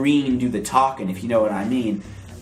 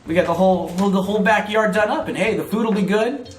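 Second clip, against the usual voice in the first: squeaky gorilla voice; 5 semitones higher than usual. Acted. Katie Kong voiced on phone.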